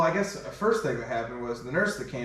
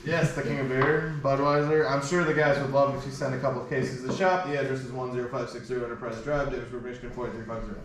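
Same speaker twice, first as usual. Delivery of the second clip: sponsor ad read; faster than usual. Acted. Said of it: "that was professional".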